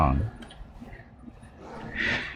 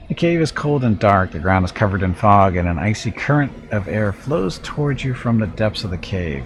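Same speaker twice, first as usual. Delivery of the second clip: dramatic storyteller reading; story narration. Acted. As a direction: read it like a dungeon description. Reads game text aloud.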